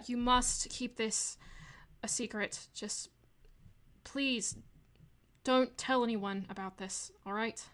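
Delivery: put-on halting, lightly British accent; attempted British accent. Game master as Arwen pleading for secrecy, light British accent. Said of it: "trying to remember how to do a British accent".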